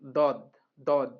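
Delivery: "দদ, দদ" said thick and full; "দদ" with an emphatic d and rounded vowel; heavy Dad. Shown as a demonstration. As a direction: repeat "দদ" with a heavy d from the molars. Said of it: "মোটাভাবে".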